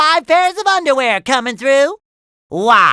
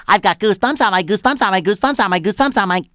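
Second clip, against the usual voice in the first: excited babble; much faster than usual. Acted. Babbling excitedly about goosebumps.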